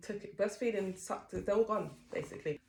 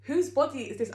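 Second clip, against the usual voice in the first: a touch of retold despair, mildly raised; mock dismay; 7 semitones higher, 6 dB louder than usual. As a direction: repeat it, calming a little but still upset. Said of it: "looked in the mirror and started crying".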